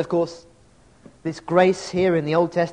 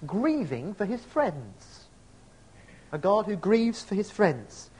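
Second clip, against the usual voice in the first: slow and soft on grieving; tender emphasis; 3 semitones higher, 6 dB quieter, slower than usual. Real, not acted. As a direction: let grieving linger slowly and gently. Slow tender repetition in sermon.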